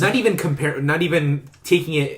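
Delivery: tripping over words, repeating them; stuck on the same phrase; stuttering. Real, not acted. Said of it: "I feel like I'm stuttering Stanley right now".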